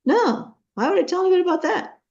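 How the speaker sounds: high, fast, incredulous retort; baffled dismissal. Retold or imitated. Friend baffled by the suggestion.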